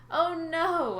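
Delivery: loud, high mock panic; theatrical "oh no"; fake alarm. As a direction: ham up the fear as a trick. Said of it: "my plan worked".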